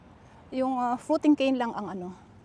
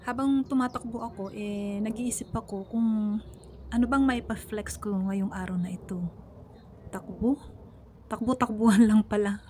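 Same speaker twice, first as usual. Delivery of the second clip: out of breath while jogging; talking mid-run, puffing; while running. Real, not acted. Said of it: "hihinga, hihinga lang ako".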